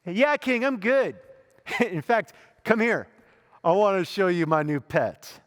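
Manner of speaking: cocky, mock-cheerful, with a laugh; imagining a smug answer to the king; smug sarcastic reply. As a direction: gloat at the king with a grin. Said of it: "this is probably what I thought I would do".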